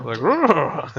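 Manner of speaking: drawn-out beast noise; creature growl. Acted. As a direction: growl like a charging pet beast.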